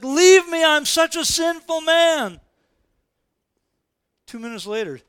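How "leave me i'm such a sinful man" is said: high, loud, drawn-out plea; acted slow, loud wail of unworthiness; anguished cry. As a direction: cry out as if fallen at someone's feet. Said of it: "Peter falls down at Jesus' feet".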